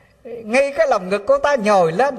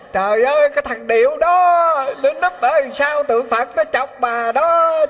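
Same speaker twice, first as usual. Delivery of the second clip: exasperated scolding; 2 semitones higher than usual. Retold or imitated. Abbot scolding, laughing at the prank.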